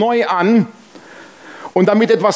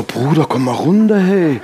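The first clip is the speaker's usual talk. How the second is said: laughing calm-down. Retold or imitated. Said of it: "Ich so".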